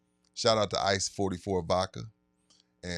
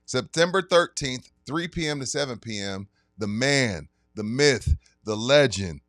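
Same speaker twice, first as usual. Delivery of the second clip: sponsor ad read. Acted. Host reads liquor store sponsor ad to listeners, hype announcer voice. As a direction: sell the event like a radio spot.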